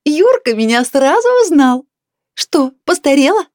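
high, loud delighted crowing; joyful yelling. A narrator's reading. Neighbour teases couple who recognised her, joyful yelling. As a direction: holler it gleefully. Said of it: "радостно завопила оглобля".

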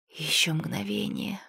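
slow, whispered dread; frightened inner thought. A narrator's reading. Girl thinking as creatures close in, frightened whisper. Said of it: "подумала Света".

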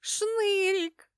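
высоко и радостно выкрикнуть имя; обрадованно зовёт пропавшего друга; радостный возглас. A narrator's reading. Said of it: "обрадованно заголосила я". (радостно голосит)

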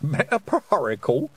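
slow, puzzled question with a rise; old witch baffled by a long word. A narrator's reading. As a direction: puzzle over the strange word. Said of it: "wrinkling her forehead".

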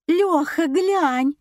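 high, loud, suddenly excited; совсем другой тон. A narrator's reading. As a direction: call him to look, all excited. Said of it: "совсем другим тоном". (восторженно, высоким голосом)

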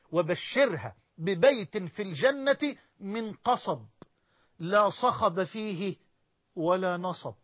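slow, measured, each word weighed; solemn hadith recitation. Acted. Preacher to congregation recites the glad tidings, slow and solemn. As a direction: savour the promise word by word.

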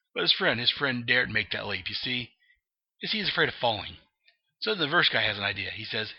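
a light Joker storyteller voice; Joker telling a joke. Acted. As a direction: spin the yarn like the Joker. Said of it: "He's like, See".

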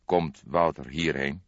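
slow, kind question; kindly. Acted. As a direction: ask gently, like a kind old man. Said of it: "vroeg hij vriendelijk". (vriendelijk, langzaam gevraagd)

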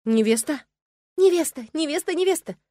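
high, loud clamouring; a stableful of horses yelling over each other; excited horses. A narrator's reading. Horses in the stable excitedly shouting about the bride. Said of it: "взволнованно зафыркала, затопала и заголосила".

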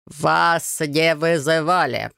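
very slow droning monotone; flat bored refusal, dragged out; guard refuses the family, very slow monotone drone. A narrator's reading. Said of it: "повторил охранник".

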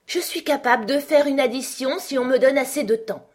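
high-pitched, defensive queen; flustered queen. Acted. White Queen caught out by Alice, answering high and defensive.

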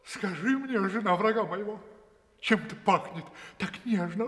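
wild dog asks the woman about the smell; lightly voiced eager dog. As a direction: sniff and plead a little.

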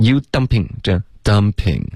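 "dumping" on one steady breath; even airflow. Shown as a demonstration. Teacher models for student, steady flowing "dumping". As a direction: carry the air evenly through "dumping". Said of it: "气流一致".

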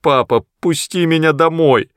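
high, pleading cry. Acted. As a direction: beg father to let go. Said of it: "закричал Мэтт". (отчаянный крик)

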